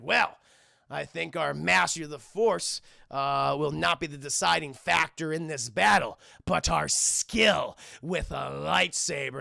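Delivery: lightly voiced stately villain; measured mock speech, slowing at the end; Count Dooku. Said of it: "Dooku's like".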